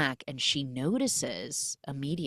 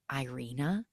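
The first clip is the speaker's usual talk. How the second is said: soft call; 6 dB quieter than usual. Retold or imitated. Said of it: "And she even says".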